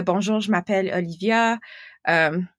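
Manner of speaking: easy, everyday Québécois French; casual sample of a Québécois accent. Shown as a demonstration. Montreal guest shows the host French from here, in a Québécois accent. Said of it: "From here? Like, Qu-, Québécois?".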